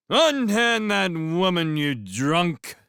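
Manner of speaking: high, loud, slow bellow; a drunk hollering across the grass; drunken shout. A narrator's reading. Drunk fisherman bursts in shouting.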